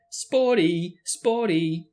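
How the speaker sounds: loud, jeering taunt; a poltergeist jeering at a fleeing ghost; yelling. A narrator's reading. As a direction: yell it after her as she flees.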